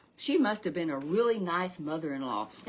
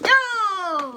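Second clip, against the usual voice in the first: surprised oh; 13 semitones higher, 13 dB louder than usual. Retold or imitated. Mother-in-law reacts to name.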